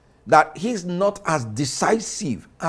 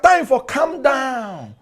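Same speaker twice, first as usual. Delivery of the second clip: heated shout; 4 semitones higher, slower than usual. Real, not acted. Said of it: "you don't need to scream".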